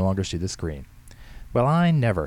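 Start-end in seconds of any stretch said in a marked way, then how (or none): 1.5-2.3 high, loud indignant huff; scandalised protest; grumbling. A narrator's reading. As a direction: grumble like an affronted old lady. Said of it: "Henrietta grumbled".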